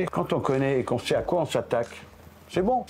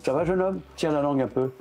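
gentle greeting. Shown as a demonstration. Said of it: "il sait que quand je parle".

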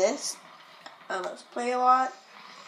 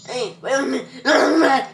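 loud, slow, startled hey; surprised; 3 semitones higher, 11 dB louder, slower than usual. Real, not acted. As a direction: stop short, caught off guard. Game surprise reaction.

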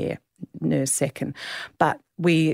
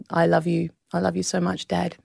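tearful. Real, not acted. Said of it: "I, I will cry when I say this".

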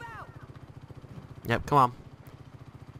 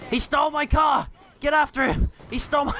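yelling that his car was stolen; outraged shout; 12 semitones higher than usual. Real, not acted. Teammate steals his car.

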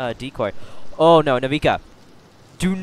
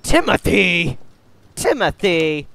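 scared horror game streamer; 3 semitones higher, 7 dB louder than usual. Real, not acted. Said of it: "Timothy jump scared me".

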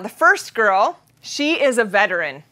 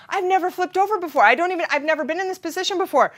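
higher, rising panic; panicked thought; 6 semitones higher, faster than usual. Retold or imitated. Upside-down slider panicking, voice climbing. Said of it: "I'm thinking".

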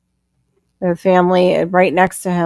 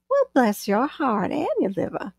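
mock southern jab; 5 semitones higher, 6 dB quieter than usual. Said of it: "a Southern woman's channel uses that phrase".

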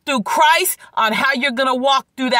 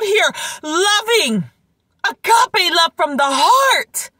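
high, raised exhortation; preaching exhortation; 6 semitones higher than usual. Acted. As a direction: exhort the crowd with force.

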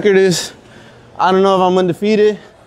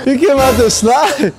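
laughing; 5 semitones higher, much slower than usual. Real, not acted. Laughing at friend on slide.

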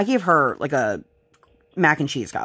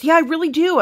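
put-on high insistent kid voice; imitating toddler; 12 semitones higher, 3 dB louder than usual. Mother voicing her daughter insisting she needs the potty, high childlike. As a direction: pipe up like a child who means it. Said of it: "she goes".

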